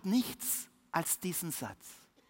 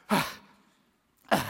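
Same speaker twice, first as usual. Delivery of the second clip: panting gasps. A narrator's reading. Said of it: "die schnaufen mehr als er".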